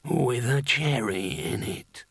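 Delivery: very slow, drawn-out sickly character voice; Pestilence. A narrator's reading. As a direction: stretch each word out slowly. Pestilence completes his drinks order.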